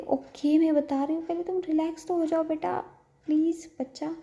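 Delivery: lovingly coaxing. A narrator's reading. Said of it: "बड़े प्यार से".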